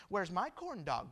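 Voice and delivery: soft little pout; lightly voiced sulky daughter; pouting child. Left-out third-born asks dad for lunch, lightly pouting. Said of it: "Got a little poochy lip".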